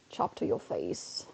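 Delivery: low, slow and soft, like a menacing threat; growled low threat; deep slow growl. Shown as a demonstration. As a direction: drop the pitch and drag it out. Playful Pokemon move commentary.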